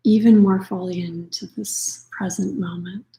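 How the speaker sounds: unhurried meditation voice with long pauses; guided meditation. Acted. Yoga nidra teacher settling listeners into practice, calm guided meditation. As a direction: gently guide them inward, leaving space for breath.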